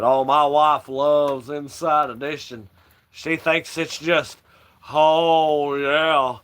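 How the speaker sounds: a mild take on a preacher musing slowly; Kenneth Copeland impression. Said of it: "that's how he talks".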